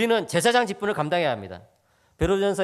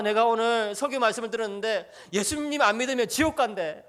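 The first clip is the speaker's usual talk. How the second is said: higher-pitched, mock-pleading child; imitated tearful child; 4 semitones higher than usual. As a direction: plead like an upset child to mom, lightly acted. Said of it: "엉엉 우는 거예요". (울먹이는 아이 흉내)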